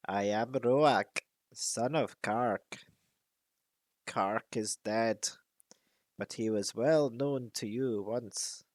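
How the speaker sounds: put-on slow, measured old raven voice. Old raven introduces himself to dwarves, slow and solemn. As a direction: speak like an ancient bird.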